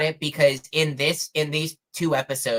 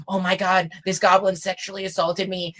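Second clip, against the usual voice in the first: lightly acted, higher-pitched accusation; mock outcry; 4 semitones higher than usual. Woman falsely accusing a goblin, mock distressed. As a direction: imitate an overdone victim's complaint, pitched up.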